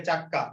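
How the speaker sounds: চাক্কা with a doubled k; emphatic double k inside চাক্কা; doubled consonant. Shown as a demonstration. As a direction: lengthen the k in চাক্কা: chak-ka. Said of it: "একটা শব্দকে জোর দিয়ে উচ্চারণ করার জন্য".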